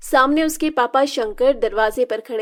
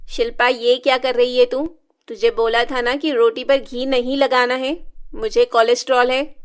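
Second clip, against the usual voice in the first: louder stern mother's voice; angry scolding; 5 dB louder than usual. Acted. Stepmother scolding Shilpa over ghee on rotis, loud and stern. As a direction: scold her sharply.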